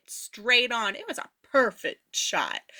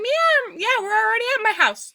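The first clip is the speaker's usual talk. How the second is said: very high, quick dazed yeah yeah; confused insisting; 10 semitones higher than usual. Retold or imitated. Dazed friend insisting to narrator they're home, high. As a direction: insist brightly while totally wrong.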